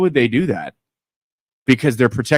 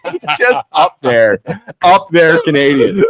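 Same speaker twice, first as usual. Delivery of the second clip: put-on a laughing Canadian accent. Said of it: "Saskatchewan Canadian".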